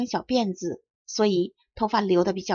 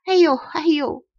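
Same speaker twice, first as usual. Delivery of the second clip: higher, louder, slow tug-of-war chant; joking heave-ho calls; 6 semitones higher, 5 dB louder than usual. A narrator's reading. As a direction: call out like pulling a rope in jest. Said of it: "开玩笑似的叫着". (开玩笑似的喊号子)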